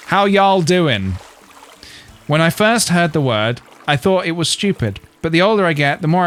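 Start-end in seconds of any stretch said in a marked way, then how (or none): 0.1-1.1 British voice trying out a slow y'all; y'all in British accent. Acted. Brit testing an American greeting on viewers, British-accented y'all. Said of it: "sounds weird in our accent".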